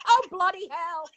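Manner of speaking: loud, slow mock English accent; English accent try. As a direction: have a go at a hammed-up English accent. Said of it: "Can you do an English accent?".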